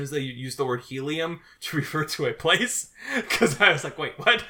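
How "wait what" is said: tag. Retold or imitated. Recalls own confusion, laughing.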